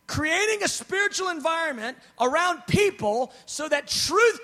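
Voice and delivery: full-force preaching. Acted. Preacher urging his beloved congregation on spiritual warfare, full-force preaching. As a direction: preach it out with rising power.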